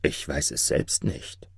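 low, hushed reply; soft whisper. A narrator's reading. Frightened Maruf answers the jinni, whispering softly. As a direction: drop to a soft, timid murmur. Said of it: "Leise flüsterte er".

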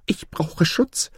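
high, drawn-out plea for protection; anxious goose calling out. Acted. Excited goose rushing to the peacocks, calling anxiously for help. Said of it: "rief sie".

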